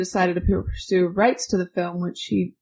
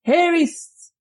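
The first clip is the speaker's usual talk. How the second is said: Rod Serling voice; 9 semitones higher, slower than usual. Pretend. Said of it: "put the voice on for this".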